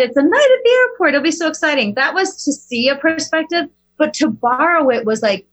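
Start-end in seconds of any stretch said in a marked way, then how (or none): 0.0-1.9 higher, quick thrilled voice; excited daughter. Retold or imitated. Daughter calling the airport night exciting, quick and higher. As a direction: rush it with a child's glee. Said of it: "when she said".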